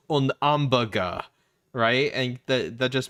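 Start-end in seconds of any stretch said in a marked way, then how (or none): 0.1-1.2 Un hamburger with a French h-less ahmbeurger; French-accented hamburger. Retold or imitated. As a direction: say Un hamburger dropping the h, French style. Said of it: "and he goes".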